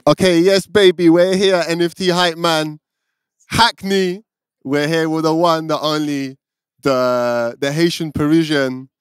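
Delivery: loud, high, pumped-up party host intro; hype man. Pretend. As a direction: hype the crowd like a club MC. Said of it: "Get into my character".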